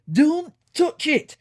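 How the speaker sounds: high, loud, drawn-out growl; slow, forceful warning growl. A narrator's reading. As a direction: growl it out as an urgent order. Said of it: "growled Smoky O'Neill".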